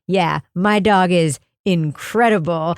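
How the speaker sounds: calm proud affirmation. Retold or imitated. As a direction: imitate the owner agreeing with total certainty. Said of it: "so affirmatively wonderful".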